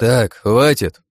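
loud, very slow, stern order; menacing command. A narrator's reading. Leader stops two women squabbling, menacingly firm. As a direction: cut the bickering short with heavy authority. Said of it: "грозно произнёс я".

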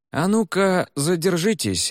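commanding officer. Acted. Officer stops the pair.

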